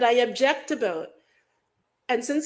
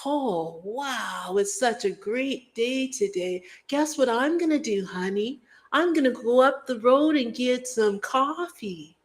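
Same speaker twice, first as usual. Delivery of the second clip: cheery mundane person; 3 dB quieter than usual. Retold or imitated. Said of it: "In a-, whatever accent you want".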